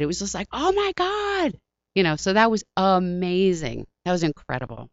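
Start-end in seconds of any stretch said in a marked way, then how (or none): 0.5-1.5 high, slow, stunned "oh my God"; drawn-out star-struck awe; awestruck gasp. Retold or imitated. Retelling seeing a famous band, high awestruck drawl.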